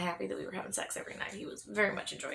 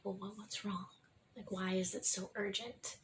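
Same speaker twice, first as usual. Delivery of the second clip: shaken, tearful; 8 dB quieter than usual. Retold or imitated. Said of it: "And I was like".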